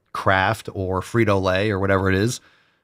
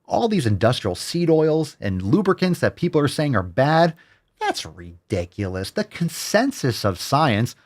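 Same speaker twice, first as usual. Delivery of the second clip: mock nutritionist voice; 5 semitones higher than usual. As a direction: mimic the blonde nutritionist sweetly and mockingly. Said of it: "Just a little blonde woman".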